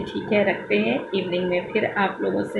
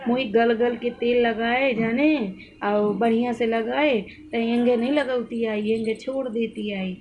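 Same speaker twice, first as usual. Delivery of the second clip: lightly voiced old mother-in-law in rural Awadhi dialect; a hint of the old lady's village Awadhi speech; mother-in-law in local dialect; 3 semitones higher than usual. Imitating her mother-in-law asking in Awadhi dialect to oil her hair. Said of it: "मैं इस तरह की language बोल रही हूँ".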